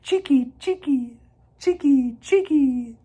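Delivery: high, chattering bird scold; high chirpy scolding call; scolding swallows. A narrator's reading.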